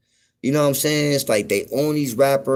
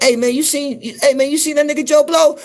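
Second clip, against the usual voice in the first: high, loud mock Southern dude; high-pitched hammed-up Southern voice; 12 semitones higher, 4 dB louder than usual. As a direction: ham up a country guy asking around. Mimicking Southern guys' lingo.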